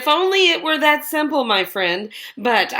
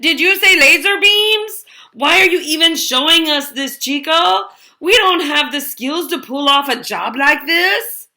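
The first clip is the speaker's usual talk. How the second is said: high, loud incredulous protest; alarmed disbelief; 5 semitones higher, 4 dB louder than usual. Acted. Gang member balking at Chico's plan, loud disbelief. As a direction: balk at the impossible job.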